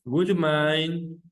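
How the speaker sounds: drawn out slowly, each word spaced for students; slow model phrase. Shown as a demonstration. Teacher models the polite phrase.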